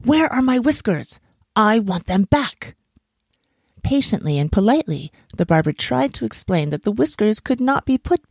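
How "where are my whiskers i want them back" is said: high-pitched indignant demand; indignant monkey squeal; angry squeal. A narrator's reading. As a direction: squeal it angrily, pitched up, landing slowly on the last words. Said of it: "squealing angrily".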